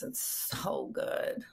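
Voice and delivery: breathless, almost whispered praise; dreamy whisper. Real, not acted. Wife recalling husband's pasta, hushed and dreamy. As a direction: whisper it like a delicious memory.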